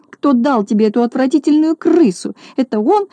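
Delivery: high accusing outcry; accusing cry. Acted. Lady accusing Neznaika, high accusing cry. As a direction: point and shriek the question. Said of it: "закричала она".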